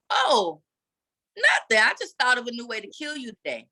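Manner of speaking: breezy taunt with a fast finish; mock-innocent quip. Telling her husband a sly dark joke, mock-innocent.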